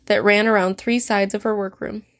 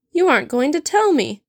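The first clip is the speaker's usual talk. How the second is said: rising, outraged accusation; 6 semitones higher than usual. Acted. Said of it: "she accused, her voice rising in outrage".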